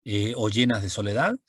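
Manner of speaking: lightly poetic reading of a verse to the moon; reciting poetry. Shown as a demonstration. Teacher reciting an example verse, lightly poetic. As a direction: recite it like a tender love poem. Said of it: "estoy diciendo".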